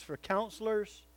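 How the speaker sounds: soft, unhurried closing prayer. Acted. Pastor closes the sermon praying over the husbands, softly. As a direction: pray it gently, thankful.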